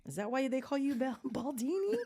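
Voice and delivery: put-on high-pitched kid's question; little girl. Little girl questioning her bald coach, high imitated child voice. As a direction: imitate a child asking innocently, breaking into laughter. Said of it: "she was very, like".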